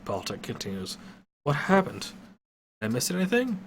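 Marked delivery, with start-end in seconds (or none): 1.4-3.6 groggy fighter. A narrator's reading. Fighter waking confused.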